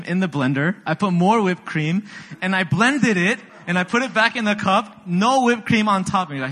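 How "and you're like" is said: ordinary delivery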